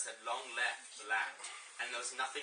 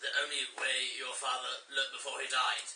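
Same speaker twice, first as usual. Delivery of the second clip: villain; 3 dB louder than usual. Acted. Scar's villain line read aloud.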